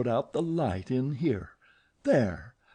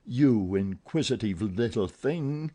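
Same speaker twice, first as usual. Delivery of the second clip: roaring anger; 3 semitones higher than usual. Acted. Eric roaring at Christine about the window. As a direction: roar it at her. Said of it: "the angry voice roared".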